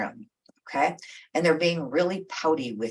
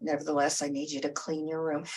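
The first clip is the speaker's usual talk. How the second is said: calm broken record; 4 dB quieter than usual. Retold or imitated. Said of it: "become a broken record".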